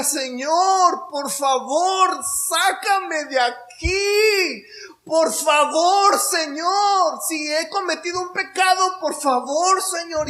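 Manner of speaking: high, slow, tearful plea to God; pleading prayer. Retold or imitated. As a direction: beg the Lord in a trembling cry. Praying in fear, retold.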